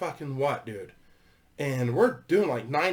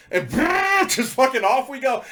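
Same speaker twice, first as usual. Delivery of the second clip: ordinary talk, nothing marked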